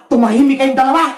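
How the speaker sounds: a hint of a bossy villain; wicked canteen vendor. (bahagyang boses ng masungit na tindera)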